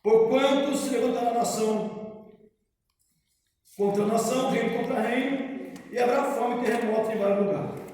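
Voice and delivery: solemn, measured Bible reading; scripture reading. Acted. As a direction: read the Gospel aloud to the congregation. Reads Gospel passage aloud.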